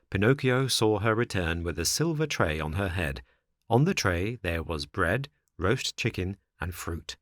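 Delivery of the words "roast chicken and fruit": usual speaking voice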